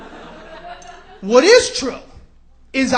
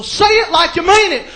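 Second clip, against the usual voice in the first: loud, higher TV-host demand; hammed-up pushy advice guru, raised voice; Doctor Phil; 6 semitones higher, 6 dB louder than usual. TV host demanding conviction, loud mock insistence. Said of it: "he's like".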